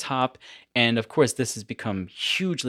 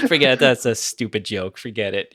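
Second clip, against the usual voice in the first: Norm impression; 3 semitones lower, 4 dB louder than usual. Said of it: "that kind of a thing".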